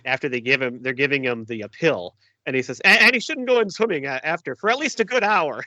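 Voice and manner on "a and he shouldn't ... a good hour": high-pitched imitation of a nagging film wife; Valerie. Fan quoting Valerie's warning after the pill, high mimicking voice. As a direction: lift the pitch into her quoted warning. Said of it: "my favorite line by Valerie is when".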